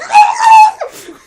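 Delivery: loud, high mock yelling; imitated flailing noise. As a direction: whoop like a kid being flung around. Imitating girl flinging boy around.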